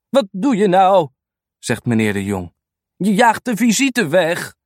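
licht gespeelde oude man die de hond berispt. Acted. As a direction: roep de hond wat luider tot de orde. (oude baas vermaant zijn hond om de eenden)

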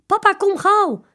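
high, loud frightened call; scared children calling for their father. A narrator's reading. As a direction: yell for papa to hurry. Children calling papa in fear.

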